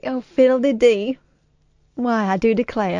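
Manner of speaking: Southern belle. Pretend. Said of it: "why are you talking like".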